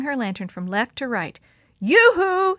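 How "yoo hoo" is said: high, loud calling yell. Acted. Kate hailing the men in the flood, yelling. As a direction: hail someone far below. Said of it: "she yelled".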